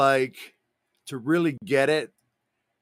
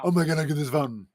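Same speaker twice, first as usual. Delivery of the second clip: cartoon dog; faster than usual. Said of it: "You're doing the voice of the dog".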